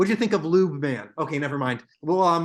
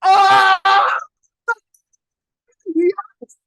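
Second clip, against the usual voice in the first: high loud burst of joy; thrilled; 10 dB louder, much slower than usual. Real, not acted. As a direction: shriek with delight. Thrilled friend watched Watchmen.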